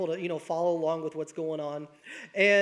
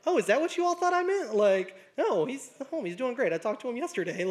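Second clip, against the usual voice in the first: amused surprise; 5 semitones higher than usual. Retold or imitated. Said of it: "The teacher's just like".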